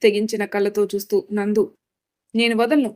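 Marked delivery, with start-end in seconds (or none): 2.3-2.9 sharp reply. Acted. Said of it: "అని తీక్షణంగా చెప్పింది".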